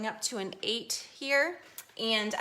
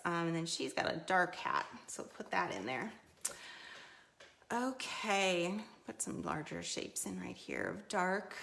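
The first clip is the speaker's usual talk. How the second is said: hoarse, fading voice; losing voice; 4 dB quieter than usual. Real, not acted. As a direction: voice giving out, half whispered. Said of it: "I'm losing my voice a little bit here".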